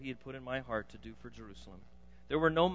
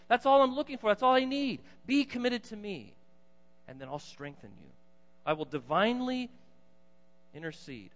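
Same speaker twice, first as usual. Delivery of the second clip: lightly voiced God pleading, then building loud; a hint of a stern but loving God calling his people; 5 semitones higher, 3 dB louder than usual. God voiced by preacher, prophet quote.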